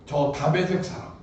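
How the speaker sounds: loud, high, half-laughing lament; loud mock-despairing plea; exasperated complaint. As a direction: wail Abraham's frustration at God. Abraham's complaint voiced by preacher.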